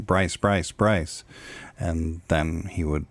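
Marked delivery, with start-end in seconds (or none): 0.1-1.2 quick triple call of "Bryce"; rapid name prompt. Shown as a demonstration. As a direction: snap the name out three times fast. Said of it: "say their name three times in a row quickly".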